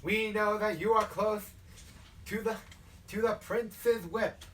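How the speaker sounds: southern preacher's weighty address, slowing at the end. Acted. Leader addressing the new initiate, southern preaching. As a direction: lay it on him in southern sermon cadence. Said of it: "a southern creature from how he starts talking".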